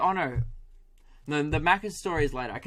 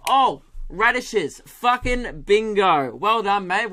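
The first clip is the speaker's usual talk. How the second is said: higher, louder, slow hammed-up eureka; mock triumphant; 5 semitones higher, 6 dB louder, slower than usual. Farmer celebrating his radish food truck idea, hammed-up, higher and louder. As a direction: drag out the big reveal in mock triumph.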